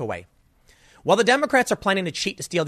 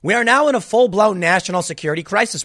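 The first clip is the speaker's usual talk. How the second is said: louder, higher read; 4 semitones higher, 5 dB louder than usual. Shown as a demonstration. Quoting Brennan to viewers, louder higher read.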